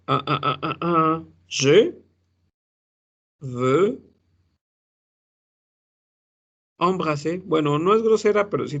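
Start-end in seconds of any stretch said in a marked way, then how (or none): 1.5-7.4 Je veux embrasser said slowly, word by word; French demo phrase. Shown as a demonstration. Teacher giving a French phrase as an example, slow. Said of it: "Que no sea grosera".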